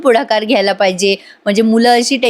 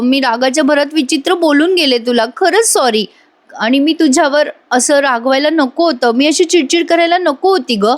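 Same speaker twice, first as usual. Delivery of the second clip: higher-pitched, pleading acted apology; earnest apology; 5 semitones higher than usual. Daughter sorry for snapping at mother, apologising.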